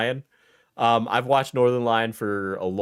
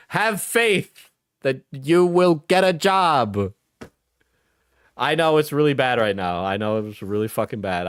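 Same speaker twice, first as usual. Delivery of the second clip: reassuring. Real, not acted. Comforting sincere encouragement.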